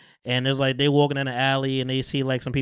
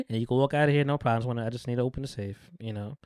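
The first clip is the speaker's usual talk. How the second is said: retold calm reassurance, trailing softer; understated, quiet control; 2 semitones lower, 5 dB quieter, faster than usual. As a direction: reassure evenly, as the unbothered gunman. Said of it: "Frank is just so calm with the gun".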